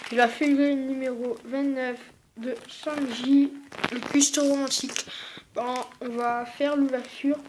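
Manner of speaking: slight lisp from new braces; talking with braces. Real, not acted. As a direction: speak around fresh braces. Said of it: "Comme peut-être vous remarquez à ma voix".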